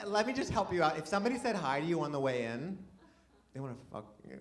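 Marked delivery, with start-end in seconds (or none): 3.5-4.4 deadpan punchline. Real, not acted.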